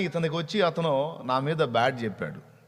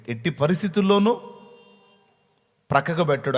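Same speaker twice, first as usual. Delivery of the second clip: Eve rebuking the serpent, louder and indignant; 4 dB louder than usual. Acted. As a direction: defend the father hotly, as a wounded daughter. Eve defends God to the serpent. (హవ్వ కోపంగా సర్పాన్ని నిలదీయడం)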